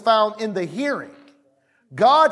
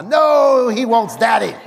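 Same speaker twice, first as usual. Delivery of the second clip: playful protest; 3 semitones higher, 5 dB louder than usual. Retold or imitated. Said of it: "arguing with wife".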